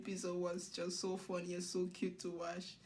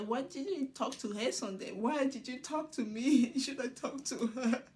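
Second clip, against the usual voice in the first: imitating playful jealousy with a laugh; mock reproach, pitched a little up; jealous, amused; 4 semitones higher than usual. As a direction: retell a jealous complaint, giggling partway. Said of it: "cute to her being jealous".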